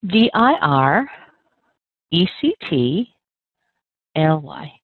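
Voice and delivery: slow, deliberate spelling of each letter; spelled out letter by letter. Shown as a demonstration. Teacher spelling the word for a student, slow and deliberate. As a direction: spell it out slowly for the learner. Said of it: "let's break it down".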